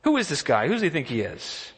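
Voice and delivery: high, fast, disbelieving questions; mock-outraged asking around; incredulous David. Preacher acting David asking the soldiers, incredulous and pitched high. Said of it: "he keeps repeating and asking people".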